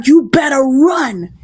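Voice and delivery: slow, emotional "You better run"; urgent push. Retold or imitated. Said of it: "she's telling her".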